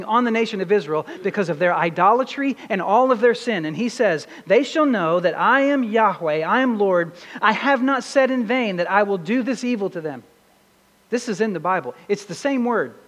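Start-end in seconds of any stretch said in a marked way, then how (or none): 4.5-10.2 slightly raised, declarative scripture reading. A narrator's reading. Preacher reads God's judgment on Israel to the congregation, scripture reading. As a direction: proclaim it as God's pronouncement.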